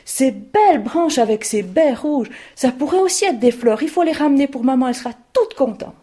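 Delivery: thrilled to show papa the berries; excited girl. Acted. Girl showing father the red berries, eager. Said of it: "elle dit".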